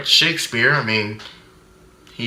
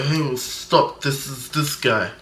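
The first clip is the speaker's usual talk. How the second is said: calm greeting; 6 dB quieter than usual. Retold or imitated. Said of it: "everybody's just calm".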